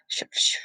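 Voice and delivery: soft swishing sh sounds; quiet hissed slicing noise; cutting noises. A narrator's reading. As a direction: mimic a blade slicing. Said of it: "He made the cutting noises".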